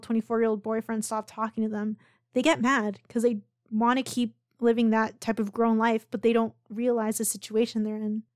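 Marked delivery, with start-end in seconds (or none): 2.3-8.2 hoarse, fading voice; losing voice. Real, not acted. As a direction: speak through a worn-out voice. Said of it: "Sorry, I'm losing my voice".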